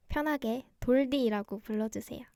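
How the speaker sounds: ordinary delivery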